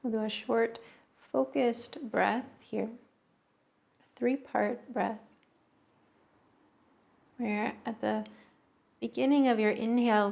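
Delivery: unhurried meditation guidance, long pauses between phrases; guided meditation. Real, not acted. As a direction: guide listeners gently into the breath, phrase by phrase. Leads a breathing meditation.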